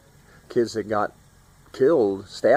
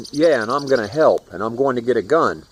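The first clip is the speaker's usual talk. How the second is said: raised-voice imitation of yelling out; retold yell; 2 semitones higher, 5 dB louder than usual. Teen yelling out the window at armed strangers, retold yell. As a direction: call it out louder, as a retold threat. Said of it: "I yelled out the window".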